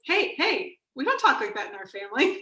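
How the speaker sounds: acted-out friendly scolding; playful family correction. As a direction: jump in to stop them, playfully. Acting out spouse's playful correction.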